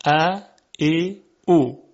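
"ا، ای، او" as separate short vowels with pauses. Shown as a demonstration. Teacher listing short sounds, "ا، ای، او" spaced apart. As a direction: say "ا، ای، او" one at a time, unstretched. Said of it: "همچنین صداهای کوتاه".

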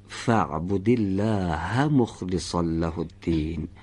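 slow recited phrase, words held; model recitation. Shown as a demonstration. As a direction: recite it slowly for the student. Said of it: "یک بار دیگه از اول بفهمید".

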